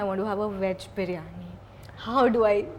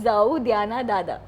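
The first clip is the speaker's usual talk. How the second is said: "Zao dya na dada" slowly, word by word; slowed for learner; slower than usual. Shown as a demonstration. Host repeats Marathi plea for puzzled guest, slow and separated. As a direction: repeat it slowly so they can catch it. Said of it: "What is that?".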